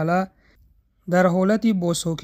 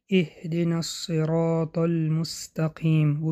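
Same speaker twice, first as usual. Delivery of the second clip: slow recitation. Shown as a demonstration. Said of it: "به طور مثال".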